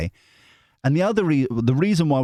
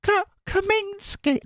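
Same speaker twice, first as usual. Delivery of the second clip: "Kominsky" said very high and slow, in a falsetto lady's voice; her voice; slower than usual. Pretend. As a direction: say "Kominsky" as she would, very high. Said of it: "now in her voice".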